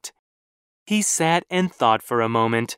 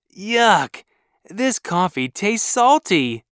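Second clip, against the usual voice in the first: disgusted; 6 semitones higher than usual. Acted. Spits out salty coffee.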